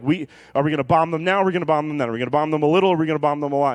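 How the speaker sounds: lightly acted rapid, insistent debate; war-room advisers. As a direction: fire off options like eager military advisers.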